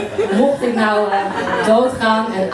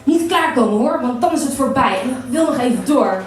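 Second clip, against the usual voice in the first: higher-pitched, lightly stern order; mock stern; 3 semitones higher than usual. Woman tells her lover to hold on, mock stern. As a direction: tell them off playfully, pitched up. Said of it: "zeg streng".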